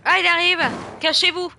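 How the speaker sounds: loud, high urgent warning; alarmed shout. Real, not acted. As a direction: yell at them to hide. Monster approaches, warning others. (crier l'alerte)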